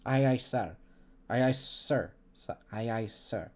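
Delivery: put-on practicing a soft Russian accent; quiet Russian accent rehearsal. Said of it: "Russian accent".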